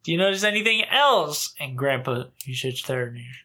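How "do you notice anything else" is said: much higher, dad's exact lilt; impersonating his dad. Retold or imitated. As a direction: play dad fishing for a compliment. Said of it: "He's like".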